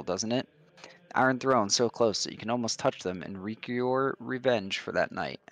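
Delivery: lightly voiced smooth schemer, calm and knowing; sly stranger voice. A hint of a scheming sage confronting Esther about her past.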